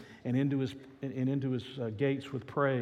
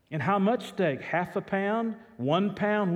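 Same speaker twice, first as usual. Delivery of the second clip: eager butcher; 6 semitones higher, 4 dB louder, slower than usual. Retold or imitated. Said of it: "the butcher was sort of intrigued".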